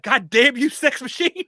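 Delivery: high, loud, hammed-up yell; mock yell. Retelling his brother's favorite scene, in a hammed-up high yell. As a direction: bellow it like the movie character. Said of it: "the black guy's like".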